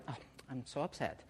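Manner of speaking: very soft, low mock whimper of upset; mock mild upset. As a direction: play down the upset in a tiny, low voice. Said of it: "it isn't like".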